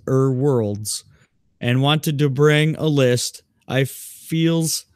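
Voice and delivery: slow, drawn-out performed reading; slow mock-formal recital; deliberate email read. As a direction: read the letter out ponderously, phrase by phrase. Reads the email aloud in character.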